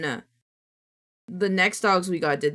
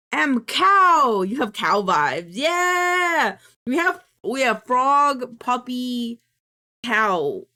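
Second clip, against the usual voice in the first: excited shout; 3 semitones higher, 6 dB louder, much slower than usual. Real, not acted. Shouting vibe names.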